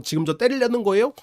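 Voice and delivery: indignant retort. Retold or imitated. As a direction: fling it back as if wronged.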